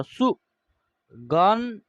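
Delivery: सुगन stretched very slowly; syllable drawn out. Shown as a demonstration. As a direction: drag the first syllables सुगन. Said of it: "ग के ऊपर एक बिंदी है".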